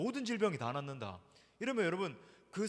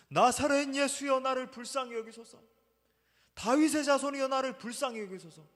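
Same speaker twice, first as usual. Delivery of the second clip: desperate cry; 6 semitones higher, 5 dB louder than usual. Retold or imitated. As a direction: call out for mercy at the top of your lungs. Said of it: "목청 터져라 부르짖었을지". (목청 터져라 부르짖는 간절한 외침)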